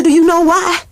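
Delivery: rising emphatic question. Shown as a demonstration. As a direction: hit it again, bigger.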